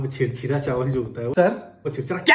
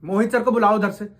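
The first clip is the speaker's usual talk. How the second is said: higher, louder call for the manager; 5 semitones higher, 4 dB louder than usual. Acted. Fed-up clerk calling across the shop for his manager, louder. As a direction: raise your voice to fetch the boss.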